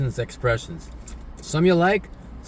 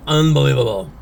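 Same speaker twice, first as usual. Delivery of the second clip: mock disbelief; 6 dB louder than usual. Exclaiming at the early hour.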